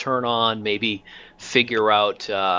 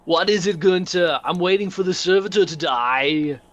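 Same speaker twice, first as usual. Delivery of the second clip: impatient officer; 9 semitones higher than usual. Acted. GM voices Crumb bounding in.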